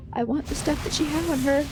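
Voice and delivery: fast eager whimper after a gasp; greedy gasp. Acted. Looter eyeing the dead woman's stuff, eager. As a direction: grab for the loot eagerly.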